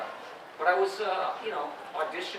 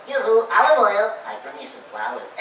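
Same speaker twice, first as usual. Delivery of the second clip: high half of Popeye; 9 semitones higher, 14 dB louder than usual. Shown as a demonstration. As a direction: sing it up high, the high half of the split voice. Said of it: "that sounds like Popeye".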